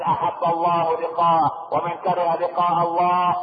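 slow, chant-like quoting with drawn-out words; hadith recitation. Acted. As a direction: intone it slowly as sacred text. Preacher quotes a hadith.

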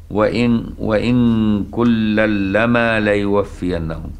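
slow, chanted tajweed recitation; Quran recitation. Shown as a demonstration. Teacher reciting the verse to his class, slow and chanted.

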